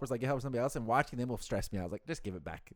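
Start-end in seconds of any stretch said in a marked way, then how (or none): 2.1-2.7 soft, low, laughing through it; laughing quote. Retold or imitated. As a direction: mutter it while chuckling. Quoting own frustration, laughing.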